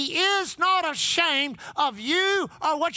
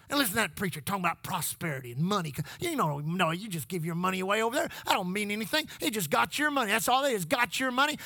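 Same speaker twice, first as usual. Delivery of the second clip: a hint of a low sneering devil, quieter and quick; light mocking devil murmur; devil's voice; 5 semitones lower, 3 dB quieter, faster than usual. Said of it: "That's how he talks".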